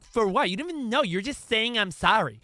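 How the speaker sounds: put-on annoyed girlfriend. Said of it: "And she's like".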